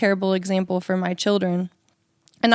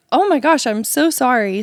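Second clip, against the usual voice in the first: higher, emphatic retold apology; apologetic; 4 semitones higher, 3 dB louder than usual. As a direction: gush out an apology, starting high and loud. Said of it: "So I apologize".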